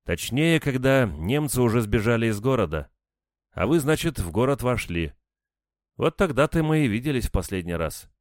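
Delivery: high-pitched, animated woman's recollection; woman recalling. A narrator's reading. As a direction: piece the memory together aloud. Narrator voices the woman recalling. (женским голосом повыше, припоминая)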